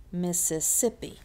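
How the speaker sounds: Mississippi with the weight on "sip"; stress on SIP. Shown as a demonstration. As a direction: make "sip" the strongest syllable of "Mississippi". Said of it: "It's the sip that has the tonic stress".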